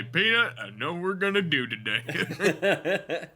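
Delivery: high playful call to a friend. Real, not acted. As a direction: sing out the name teasingly. Calling out to another player.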